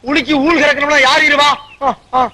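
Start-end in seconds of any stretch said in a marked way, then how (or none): 0.1-1.0 உலுக்கி ஊல் said without the opening p sounds; comic mispronunciation, ஊல் for paal; dropped initial consonants. Acted. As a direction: lose the p at the start of ஊல். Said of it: "உச்சரிப்பு தப்பு".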